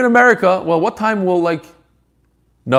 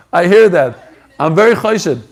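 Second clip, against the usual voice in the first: laughing; 3 dB louder than usual. Real, not acted. Laughing at caller's remark.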